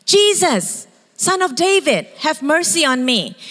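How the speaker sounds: pleading shout; shouting blind man. Retold or imitated. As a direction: call out desperately to Jesus. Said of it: "he starts shouting".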